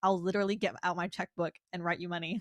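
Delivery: normal talking voice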